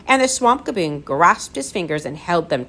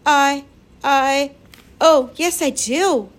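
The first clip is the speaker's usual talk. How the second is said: put-on high, loud, faltering child's answer; girl stammering bravely through fear; brave but near tears; 8 semitones higher, 4 dB louder, slower than usual. A narrator's reading. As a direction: force out a brave yes while close to tears. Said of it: "Lindy replied bravely".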